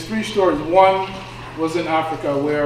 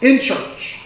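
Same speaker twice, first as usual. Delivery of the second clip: loud, slow, pleading outcry raised high; building anguished protest to God; anguished cry at God; 5 semitones higher, 7 dB louder, slower than usual. Retold or imitated. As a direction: preach it as grieving people shouting at God. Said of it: "people there who was angry at God and said".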